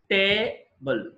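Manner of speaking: టేబుల్ drawn out slowly as tay and bul; slow syllable demo. Shown as a demonstration. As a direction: break టేబుల్ into two slow beats. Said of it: "two syllables ఉన్నాయి". (నెమ్మదిగా అక్షరాలుగా)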